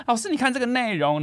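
high, urgent imitation of a frantic mother; loud panicked mother. Panicked mother showing the teacher the phone, high and urgent. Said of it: "她声音非常的大声".

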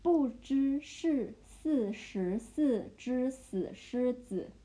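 不知是四十四只死狮子 slowly, syllable by syllable; slow chunked demo. Shown as a demonstration. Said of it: "Okay, the second".

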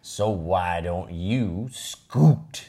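rising greedy mine mine mine; possessive whining. Acted. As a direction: whine like a spoilt child. Pig's possessive rant read.

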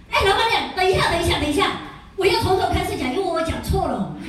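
high, urgent mock interruption; imitated panicky plea to start over; flustered interruption. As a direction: cut in hastily to stop the listener. Acts partner halting owner to restart.

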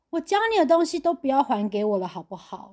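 lightly voiced smug manager; a hint of a patronizing boss; condescending boss. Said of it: "最恶心的鸡皮疙瘩的话". (轻微模仿的高高在上口吻)

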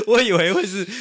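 high laughter spilling into words; laughing. Real, not acted. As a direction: laugh high and loud, then squeeze words out. Laughing at own idea.

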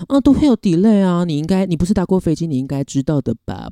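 lightly voiced scammer spouting nonsense; mocking scammer. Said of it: "他讲一些屁话". (轻度模仿骗子敷衍的语气)

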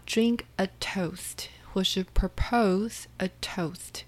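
soft unvoiced whisper. Shown as a demonstration. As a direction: whisper the phrases. Whispered vocabulary items.

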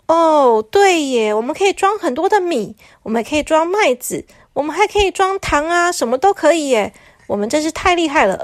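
lightly voiced thrilled toilet; excited toilet. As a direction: pile on the ideas with delight. Second toilet agrees excitedly.

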